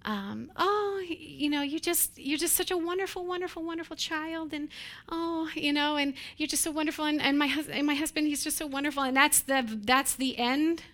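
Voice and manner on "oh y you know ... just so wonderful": higher, sing-song mock gushing; gushing adoration. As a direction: overdo the sweet praise, a bit higher. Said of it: "loving ... with s-, feelings and adoration".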